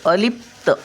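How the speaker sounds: अलिप्त split, लिप cut short before त; quick short syllable. Shown as a demonstration. Teacher showing the short vowel, अलिप्त with quick लिप. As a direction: clip लिप, then a separate त. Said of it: "लिप पटकन बोलतो".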